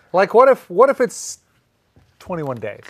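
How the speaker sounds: high, loud disbelief; incredulous high. Real, not acted. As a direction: press the question up high. Mock outrage, rising pitch.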